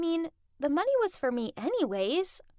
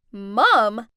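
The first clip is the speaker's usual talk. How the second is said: shocked shout; 3 semitones lower, 10 dB louder than usual. Acted. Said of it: "Jasmine, Brent, and Sophia all shouted".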